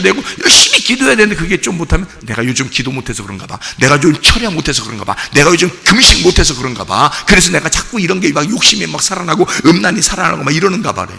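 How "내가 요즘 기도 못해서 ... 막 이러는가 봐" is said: dejected self-blame. Acted. Voices a believer blaming himself.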